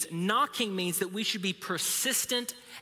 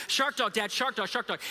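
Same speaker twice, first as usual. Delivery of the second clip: lightly voiced hyper son chanting; a hint of a pestering, excited little boy; over-caffeinated kid; 3 semitones higher than usual. Son pestering dad for a cartoon, mildly hyper chant. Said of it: "drank a cup of coffee".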